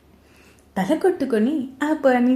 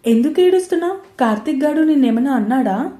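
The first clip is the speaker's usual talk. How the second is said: higher and louder, anxious questions; worried; 4 semitones higher, 4 dB louder, faster than usual. Acted. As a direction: rush to ask what happened, alarmed. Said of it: "కంగారుగా కల్పన పక్కన కూర్చుంటూ అడిగింది". (కంగారుగా, ఎత్తైన గొంతుతో)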